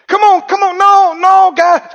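excited call to charge in; eager rallying call. Acted. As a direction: fire them up to go now. Caleb rallying the people.

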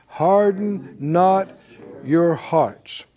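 slow, deliberate words to repeat; slow recitation. Shown as a demonstration. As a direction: say it slowly so all can join in. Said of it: "Everybody say it out loud".

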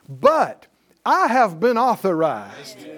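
normal talking voice

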